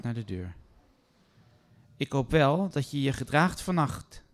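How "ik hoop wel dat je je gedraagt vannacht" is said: sharp snap, a bit higher and louder; snapping back. Acted. Alicia to Suze as they pass, sharp snap. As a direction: bite it off at her. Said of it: "beet Alicia van zich af".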